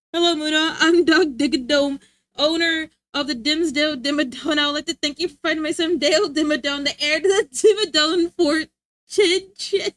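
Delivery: slightly pompous rich man, slowed; hammed-up tycoon thanking the finder. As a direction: announce yourself grandly. Reads donation in character.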